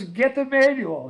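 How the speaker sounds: put-on high, loud, slow toddler wail; mock tearful toddler. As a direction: imitate a crying little boy, stretched and loud. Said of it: "He goes".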